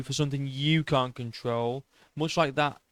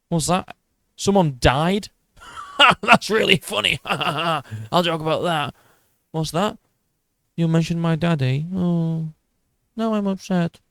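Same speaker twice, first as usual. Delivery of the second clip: higher, laughing mock voice, callous then suddenly upset; mocking Sean's hypocrisy; 3 semitones higher than usual. Podcaster mocking the fighter Sean, laughing then upset. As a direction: sneer through laughter, then flip to hurt.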